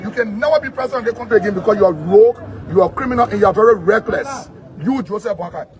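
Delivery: loud accusations, hammered home; real loud, indignant attack; angry denunciation. Real, not acted. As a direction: denounce him forcefully. Denouncing the president to his face.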